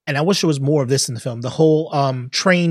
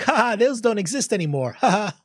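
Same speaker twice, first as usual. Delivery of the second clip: high, put-on "ha ha" laugh around the words; mock laughter; 7 semitones higher than usual. Viewers chuckling at nineties relics, mock laughter. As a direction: imitate a lightly amused audience laughing. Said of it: "like, laughing, like".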